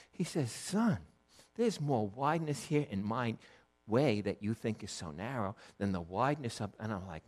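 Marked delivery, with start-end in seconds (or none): 0.5-6.7 softer fatherly reassurance; kind. Retold or imitated. God reassuring his son about the narrow way, kindly. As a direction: reassure gently, letting the voice settle. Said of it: "he was just kind".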